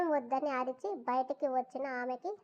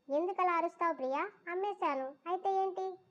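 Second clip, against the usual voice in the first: a mild, careless shrug in the voice, higher; utter indifference; 5 semitones higher than usual. Acted. Traitor dismissing the girl he sold, mildly careless. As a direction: brush her off lightly. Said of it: "నిలువెత్తు నిర్లక్ష్యంతో చెప్పాడు".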